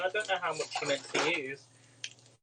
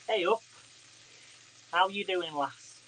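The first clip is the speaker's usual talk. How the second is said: broad Yorkshire greeting, lifted higher; Yorkshire slang greeting; 3 semitones higher, slower than usual. Pretend. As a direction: hail a mate in Yorkshire dialect. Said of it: "we're gonna talk in Yorkshire slang".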